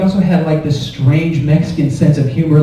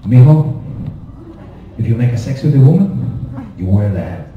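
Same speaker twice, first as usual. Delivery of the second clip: put-on Mexican dad accent; 7 semitones lower than usual. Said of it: "wicked accent".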